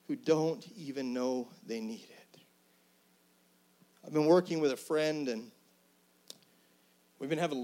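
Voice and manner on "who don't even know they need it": whispered aside. Real, not acted. Preacher whispering to the congregation about people in need. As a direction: drop to a hushed whisper.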